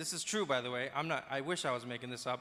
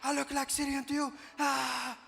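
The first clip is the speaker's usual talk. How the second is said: higher, indignant mock outburst; offended gentleman snapping back, higher and mock angry; mock angry man; 10 semitones higher than usual. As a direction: play the offended guy, voice jumping high. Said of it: "And he got so angry".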